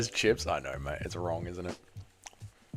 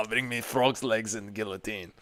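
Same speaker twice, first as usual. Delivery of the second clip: righteous paladin declaration; 7 semitones lower, 14 dB quieter than usual. Pretend. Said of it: "impression of a Crusader".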